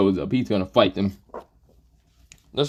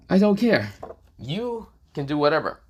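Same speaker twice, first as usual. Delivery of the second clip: dismissive; 6 semitones higher than usual. Acted. Dismissive character retort.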